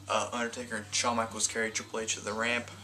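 winded narration; short of breath. Real, not acted. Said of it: "I'm running out of breath".

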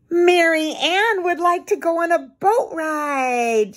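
high-pitched, eager Susan voice; excited idea. A narrator's reading. Susan offers her doll a boat ride, excited. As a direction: pitch it right up, full of the new idea.

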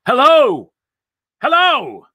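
high, loud holler on the run; yelled greeting. A narrator's reading. Saul running to the newcomer, yelled hello. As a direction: call out across a distance. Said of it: "he ran and yelled".

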